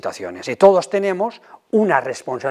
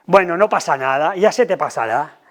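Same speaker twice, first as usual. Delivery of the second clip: dismissive parent. Shown as a demonstration. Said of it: "quitarle importancia".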